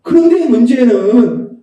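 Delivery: ordinary delivery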